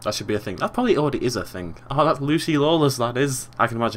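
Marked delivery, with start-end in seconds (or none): 1.9-3.5 badly faked Cockney; terrible Cockney accent. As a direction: have a rough go at sounding Cockney. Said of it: "That was a terrible Cockney accent".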